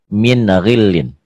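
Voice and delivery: min ghillin spoken slowly and clearly; slow recitation. Shown as a demonstration. Teacher modelling min ghillin slowly. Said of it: "Tuh, kemudian ini".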